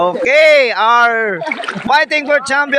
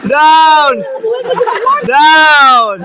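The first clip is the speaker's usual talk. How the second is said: louder and louder calls of down; referee countdown; 3 dB louder, much slower than usual. Acted. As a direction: count the fighter out. Counting down the loser.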